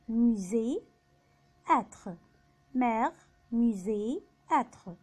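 "مير", "موزي", "أتر" with clear French e; "أتر" as French "être", open e; accented E as e. Shown as a demonstration. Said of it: "فوق الحرف بيتنطق إي".

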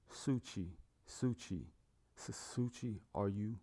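softly calling out in shock; quiet, searching call for a lost child. A narrator's reading. Shocked father looking for his daughter.

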